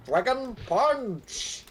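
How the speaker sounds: slow, high muffled announcer call; game announcer. Retold or imitated. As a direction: call out the move like an arcade game. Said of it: "the muffled voice clips of going".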